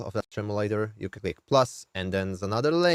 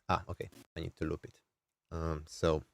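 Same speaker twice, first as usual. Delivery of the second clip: talking through the nose; soft, pinched nasal tone; 2 semitones lower, 7 dB quieter than usual. Real, not acted. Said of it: "I'm using my nasal voice like this".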